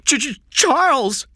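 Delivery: put-on a young boy insisting on his name, nervous; scared boy Jeff. Boy stammers in fear.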